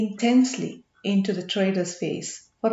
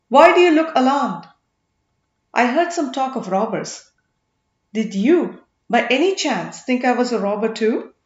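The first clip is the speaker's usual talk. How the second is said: derisive; 5 dB louder than usual. Acted. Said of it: "He laughed derisively again".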